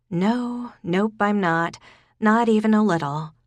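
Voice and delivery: adamant, punching NOT; emphatic denial. A narrator's reading. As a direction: insist hard that you're not. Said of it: "she didn't have to be so emphatic".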